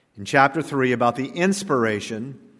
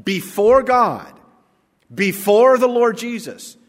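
higher and louder, a grave and weighty charge; serious solemn charge; 5 semitones higher, 4 dB louder than usual. Retold or imitated. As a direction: lay down the charge as if before God himself. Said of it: "he says it in such serious tone".

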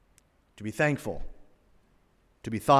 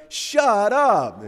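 mock amazed shut up; 6 semitones higher than usual. Customer tasting peppermint shake.

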